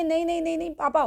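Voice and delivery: frightened pleading. A narrator's reading. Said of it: "अब लड़की जो है वो चिल्लाती है".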